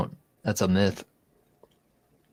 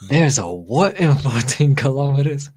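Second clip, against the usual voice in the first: loud, incredulous Aussie, rising higher; Australian accent; 4 semitones higher, 6 dB louder than usual. Retold or imitated. Host quoting a viral video, in a loud Australian accent. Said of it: "can you do an Australian accent?".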